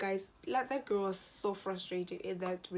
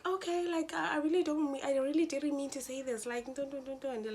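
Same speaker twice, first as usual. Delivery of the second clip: high mock excuse-making; annoying girl; 5 semitones higher than usual. Classmate backtracking on what she said, high mocking voice. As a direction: mimic her backpedalling, high and trailing into babble. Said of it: "she was so annoying".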